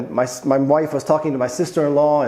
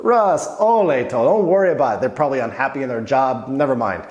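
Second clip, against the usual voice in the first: consoling friend; 2 semitones lower than usual. Retold or imitated. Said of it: "looked at me after we walked out and said".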